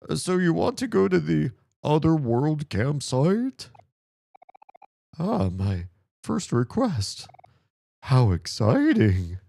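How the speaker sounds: clown voice. Acted. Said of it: "a clown voice or something".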